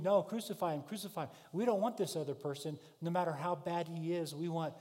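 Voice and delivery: shouting crowd demanding crucifixion; crowd yelling. Retold or imitated. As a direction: yell it like an angry mob. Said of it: "starts to yell and scream".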